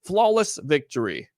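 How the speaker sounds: game announcer, low and menacing; Mortal Kombat announcer. Retold or imitated. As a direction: growl it like the fighting game voice. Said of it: "it's like Mortal Kombat".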